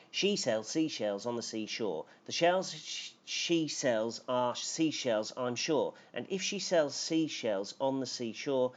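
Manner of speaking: racing through the tongue twister against the clock; teacher races to beat the timer; timed tongue twister. Shown as a demonstration. Teacher racing the timer for the class, rushed. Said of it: "I'm gonna time myself".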